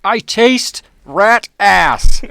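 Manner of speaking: ordinary talk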